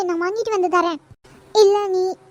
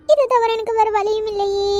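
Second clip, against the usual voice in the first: tearful. Acted. Desperate over hospital money.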